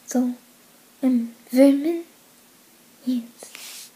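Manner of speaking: halting attempt at a German accent; amateur German accent, petering out. Confirming her nationality in the challenge, German accent.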